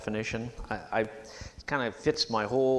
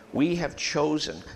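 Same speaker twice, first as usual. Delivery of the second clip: normal talking voice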